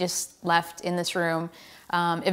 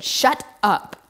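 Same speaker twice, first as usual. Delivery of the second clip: a higher, louder, cold brush-off from the nurse; curt nurse; 6 semitones higher, 4 dB louder than usual. Retold or imitated. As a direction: dismiss him sharply, no sympathy. Nurse snapping at injured rider.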